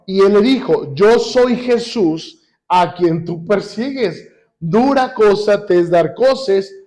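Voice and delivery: very slow, weighty Bible reading; deliberate, spaced-out pulpit reading; scripture reading. A narrator's reading. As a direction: draw out each phrase of the verse. Reads scripture aloud to congregation.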